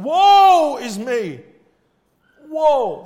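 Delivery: loud, high, drawn-out wail of woe; mournful woe. Acted. Prophet seeing God's holiness, loud slow wail. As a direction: stretch the woe out as a lament. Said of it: "and then he said".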